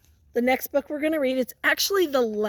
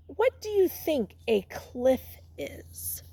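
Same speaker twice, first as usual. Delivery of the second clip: whispered question; 6 dB quieter than usual. Real, not acted. Teacher quietly asks children to turn and talk, whispering.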